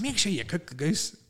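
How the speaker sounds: husband repeating his sleep-talk to his wife; mock sleep talking. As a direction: drawl it out half-asleep. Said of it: "And I was like".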